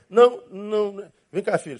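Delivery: usual speaking voice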